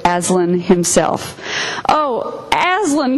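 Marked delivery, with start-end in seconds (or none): 1.9-3.2 put-on higher, breathless child's cry of relief; glad frightened cry. A narrator's reading. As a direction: cry his name high, half scared half glad. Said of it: "cried both children".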